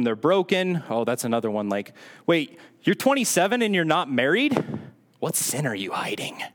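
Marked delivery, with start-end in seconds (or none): 2.3-6.4 mock suspicion. Church member questioning an unmarried twenty-seven-year-old, mock suspicion. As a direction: imitate a scandalized busybody turning accusing.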